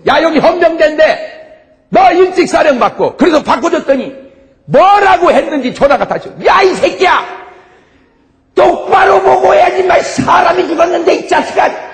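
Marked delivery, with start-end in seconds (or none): 0.1-3.2 higher, slow and louder barking order; a stern military policeman demanding; gruff MP officer. Retold or imitated. 6.5-11.9 high, loud cursing tirade; enraged officer shouting curses down the phone; furious yelling. Retold or imitated. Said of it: "막 욕을 막, 막 그러는 거야".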